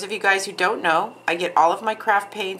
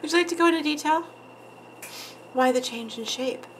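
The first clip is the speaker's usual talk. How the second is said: titillated; 8 semitones higher, 4 dB quieter, faster than usual. Pretend. Teasing Juicy with mock interview questions.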